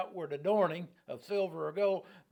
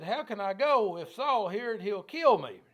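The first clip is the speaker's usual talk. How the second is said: louder and higher, a frightened prophet crying out; alarmed outcry; 5 semitones higher, 7 dB louder than usual. Acted. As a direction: cry it out as if Saul were already at the door. Samuel fears Saul will kill him.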